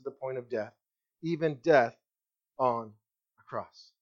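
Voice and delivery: scripture reading. Acted. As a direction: read it reverently, letting the last words drop away. Preacher reads Philippians aloud.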